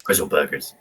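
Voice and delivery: low, botched Bristol "Brizzle Burgers"; off-target Bristol accent. Shown as a demonstration. Teasing a friend from Bristol, fumbled Bristol accent. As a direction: attempt Bristol with heavy r's and miss. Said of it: "That's not the accent".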